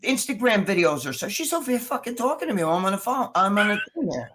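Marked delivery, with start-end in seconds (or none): 1.3-4.3 exasperated. Real, not acted. Exasperated aside about interruption.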